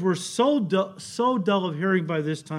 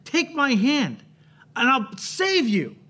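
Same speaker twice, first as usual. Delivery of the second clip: pleading rescuer; 6 semitones higher, slower than usual. Retold or imitated. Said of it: "and he says".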